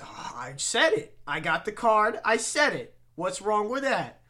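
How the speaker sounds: defiant Bill Burr. Retold or imitated. Bill Burr bit continues.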